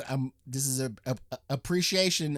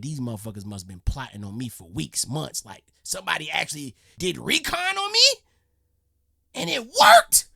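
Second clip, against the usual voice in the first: paranoid disbelief building; 4 dB louder than usual. Retold or imitated. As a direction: let suspicion build to an outraged yelp. Homeowner imagining burglars planning recon.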